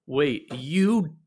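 rising to a shocked high squeak; stunned bard, pitch shooting up; aghast disbelief. Acted. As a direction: voice climbs in horror. Nate aghast at party.

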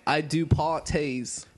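slow mock Cockney; put-on Cockney, consonants dropped; Cockney accent. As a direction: drawl it like a Cockney sweep. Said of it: "I have to put on the accent".

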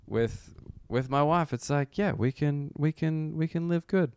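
sing-song Borat boast; Borat impression. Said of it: "the Borat thing".

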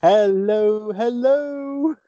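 gentle trumpeting elephant; sing-song loud hello; Dave the Elephant voice. Pretend. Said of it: "my Dave the Elephant impression".

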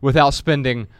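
measured book reading voice; reading from his book. Acted. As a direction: read the passage aloud, deliberately. Reads his book aloud.

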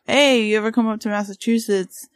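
put-on light Boston accent in a quote. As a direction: say it like a Massachusetts local. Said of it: "Are you trying to do a Boston accent?".

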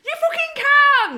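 mock exasperated retort. Scolding the imagined date who won't cook, exasperated. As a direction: snap back in disbelief.

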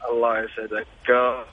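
faint, breaking up phone line; fading in through static. Real, not acted. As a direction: caller cutting in and out. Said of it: "الصوت يقطع عندك".

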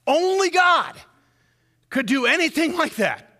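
high, loud proclamation of Only God; preaching shout. Real, not acted. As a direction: cry it out from the pulpit. Preacher proclaiming God's power.

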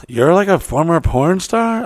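high, slow incredulous question; imitated girl. Girl asking him about the article, imitated high voice. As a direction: mimic a girl's drawn-out query. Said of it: "talking to a girl".

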